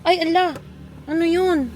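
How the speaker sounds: startled exclamation, pitch jumps up; a sudden, startled 'what's that?'; surprised. Real, not acted.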